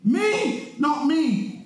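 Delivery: acted indignant protest; emphatic refusal in short bursts; emphatic denial. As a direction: deny it firmly, word after word. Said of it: "emphatic as he was".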